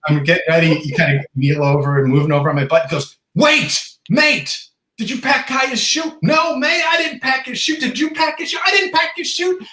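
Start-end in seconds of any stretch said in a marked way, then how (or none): 3.3-9.6 high-pitched bickering guides in mock alarm; mock panic. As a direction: act out two guides panicking, voice way up. Guides' mock panic over parachute.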